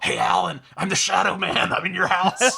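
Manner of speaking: creepy shadow voice, half whispered; mock spooky whisperer. Game shadows haunting the stoned player, mock creepy. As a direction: taunt like a lurking game phantom. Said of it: "'cause everybody's whispering".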